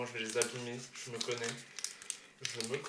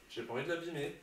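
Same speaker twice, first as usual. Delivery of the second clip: trembling voice; 3 semitones higher, faster than usual. Real, not acted. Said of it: "Ouais, je tremble".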